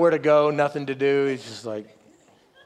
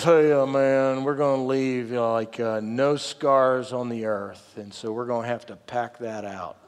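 lightly voiced laid-back young guide, slow and low; a hint of a punk kid, drawn out; 5 semitones lower, 3 dB quieter than usual. Young guide telling camper to pack out vomit, lightly mocked punk kid. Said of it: "some twenty-five-year-old punk kid".

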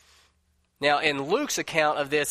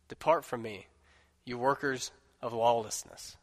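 measured, formal Bible reading to the congregation; solemn scripture reading. Acted. Preacher reading the gospel passage to standing congregation, solemn. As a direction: read it aloud like holy words, unhurried.

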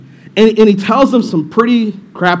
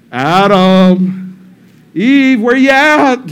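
drawn-out call across a garden; calling out names; 3 dB louder, much slower than usual. Acted. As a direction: call out as if searching for someone. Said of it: "calling out their names".

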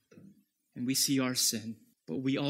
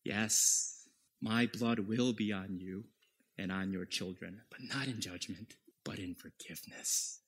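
fading to soft, lower tender words; gentle Jesus; 4 semitones lower, 4 dB quieter than usual. Acted. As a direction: answer the mob with quiet mercy. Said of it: "Jesus was saying to them".

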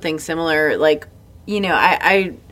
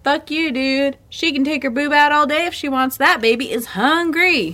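pitched up, indignant, hammed-up defiance; defiant retort; 8 semitones higher than usual. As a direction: tell off the snob with mock outrage. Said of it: "they need you to be like".

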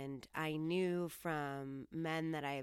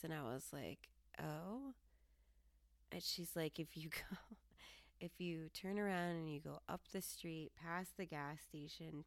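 confidential; 6 dB quieter than usual. Retold or imitated. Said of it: "kind of pulled me in close".

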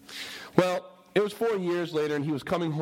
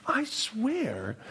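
hushed unvoiced whisper; whispered confession; 6 semitones higher than usual. Missionary's wife whispering her confession to him. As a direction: whisper it like a guilty secret. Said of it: "she's like".

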